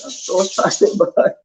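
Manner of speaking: embarrassed laugh breaking into the words; laughing apology. Real, not acted. Host apologizing to viewers for botched abbreviations, laughing. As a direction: apologize through giggles.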